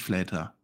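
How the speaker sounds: "Flater" with an English AY; deliberate mispronunciation. Shown as a demonstration. Host turns co-host's name English, "Flater" as FLAY-ta. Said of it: "Ich sag ja auch nicht".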